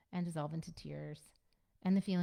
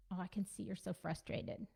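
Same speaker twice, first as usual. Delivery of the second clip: softer, calm naming of the feeling; gentle acknowledgment; 6 dB quieter than usual. Shown as a demonstration. Parent calmly naming a child's frustration, soft and gentle. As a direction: say it softly and simply, no lecture. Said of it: "That's how it can sound".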